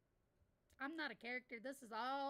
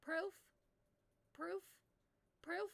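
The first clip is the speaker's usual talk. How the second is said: whiny repeated demand; mock demanding kid; 7 semitones higher, slower than usual. Retelling kid demanding proof, mock insistent. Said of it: "and I quote, goes".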